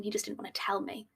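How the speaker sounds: hushed, unvoiced whisper; whispered aside. Real, not acted. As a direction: let it slip in a whisper.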